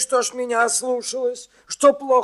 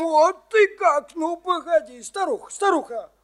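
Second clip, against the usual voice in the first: indignant anger; 6 semitones higher than usual. Acted. Old man grows angry.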